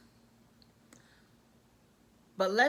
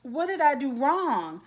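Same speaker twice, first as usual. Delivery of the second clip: hammed-up wounded mother, pitched up; mock tearful; 4 semitones higher than usual. Mother blaming herself to her daughter, mock tearful. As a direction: lightly imitate a weepy guilt trip. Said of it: "she's in tears like".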